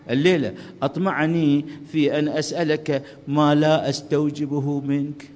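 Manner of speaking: slow, steady prayerful recital; prayer recitation. Acted. Preacher reciting the supplication before God, slow and devout.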